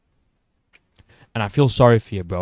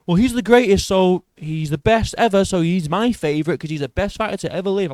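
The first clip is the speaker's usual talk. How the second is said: higher-pitched mimicry of a fan; lightly mock a fan's reasoning, pitched up; mock casual fan; 5 semitones higher than usual. YouTuber imitating a casual fight fan, mildly mocking higher voice. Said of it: "such a casual fucking answer".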